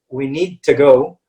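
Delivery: slow "we need to go" with "to" reduced; model pronunciation. Shown as a demonstration. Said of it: "what we need to say is".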